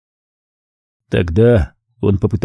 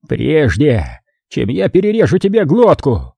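panting rasp; 3 semitones higher than usual. Acted. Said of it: "пыхтя прохрипел кардинал".

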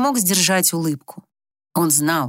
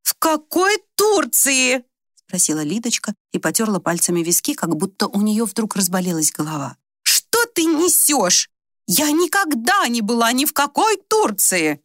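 indignant confusion; 4 semitones higher than usual. Acted. Old woman indignantly denying she was in Turkey. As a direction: reject the nonsense.

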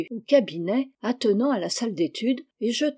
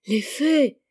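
higher, theatrical cry of dread; 5 semitones higher than usual. A narrator's reading. Pupil feigning terror of fairies before the stuck master, crying out. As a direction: wail it like a panicking child. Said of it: "criait-il".

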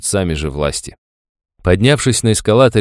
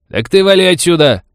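angry shout; 11 semitones higher, 6 dB louder than usual. Acted. Old man chases stranger off.

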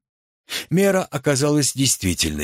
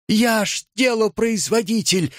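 much higher, panicked shriek; terrified squeal; 10 semitones higher than usual. A narrator's reading. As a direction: squeal it out in horror. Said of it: "в ужасе ... взвизгнул Коротков". (взвизгнуть в ужасе, высоко)

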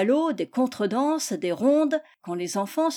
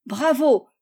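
higher, louder storybook cheer; cheering cry; 4 semitones higher, 6 dB louder than usual. A narrator's reading. The guests admire the little boots, cheering cry. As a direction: cry out in acted delight. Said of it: "cria-t-on".

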